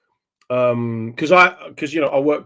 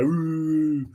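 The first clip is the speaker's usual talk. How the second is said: higher-pitched imitated crowd ooh; crowd's "ooh"; 4 semitones higher, 4 dB quieter than usual. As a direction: mimic an audience's drawn-out ooh. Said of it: "Straight away".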